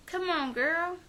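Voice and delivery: put-on high, drawn-out "come on, girl"; sassy mock scolding. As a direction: throw it up high like a fed-up friend. Friend voiced scolding in retelling.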